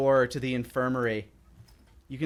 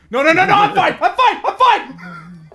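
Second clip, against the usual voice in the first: high, loud protest through laughter; laughing protest; 14 dB louder than usual. Acted. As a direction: squeal it while being carried. Sailor protests being carried.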